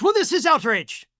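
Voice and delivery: hammed-up angry Putin threat; mock Russian accent. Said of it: "And Putin says".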